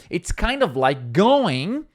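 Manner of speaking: slow, careful teacher model, ending on a rise; slow model phrase. Shown as a demonstration. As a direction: say it slowly so learners can copy. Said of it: "and you can learn".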